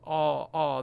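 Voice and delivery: Ah with the mouth wide open; wide open vowel. Shown as a demonstration. Teacher showing singers the vowel, wide open Ah. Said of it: "we really need the wide mouth frog".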